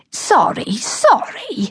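mortified teacher. Acted. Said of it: "mortified because she thought".

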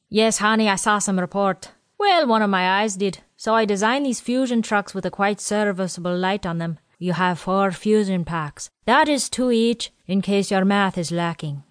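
lightly voiced old quartermaster; a hint of a chatty old supply man. Quartermaster Willie explains supplies to Janae and Ken, lightly voiced old man.

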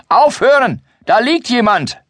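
very high, loud cry to stop; urgent shout. Acted. Grimbold stops the dwarfs and points at the bed, shouting. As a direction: call out to halt the fight. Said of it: "als Grimbold ruft".

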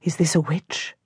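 hushed, frightened lady asking softly; whispered question. A narrator's reading. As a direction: breathe it out as a scared whisper. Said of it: "crosses herself and whispers".

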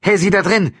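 loud, high shout; calling out. A narrator's reading. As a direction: call through a door to someone inside. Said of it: "rief Franziskowitsch".

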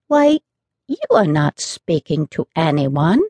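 put-on puzzled, amazed children; surprised children. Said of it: "more surprised than ever".

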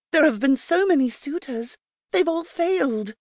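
Mirror. Acted. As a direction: announce the news eagerly.

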